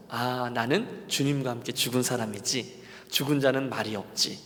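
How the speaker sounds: low, soft inner monologue; subdued talking to oneself; quiet self-reminder. Retold or imitated. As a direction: murmur it to yourself as settled truth. Voices his own self-reminder.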